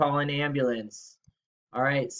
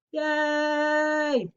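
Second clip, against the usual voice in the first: yay; 12 semitones higher than usual. Real, not acted. Birthday cheer.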